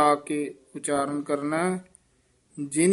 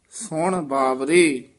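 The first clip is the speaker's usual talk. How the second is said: slow ਸੁਣ ਬਾਵਰੇ, then a clear break after ਬਾਵਰੇ; pause after ਬਾਵਰੇ; 3 dB louder, slower than usual. Shown as a demonstration. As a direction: stop cleanly on ਬਾਵਰੇ. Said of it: "ਇਹ ਵੀ ਵਿਸਰਾਮ ਬਾਵਰੇ ਪਦ ਤੇ ਹੈ".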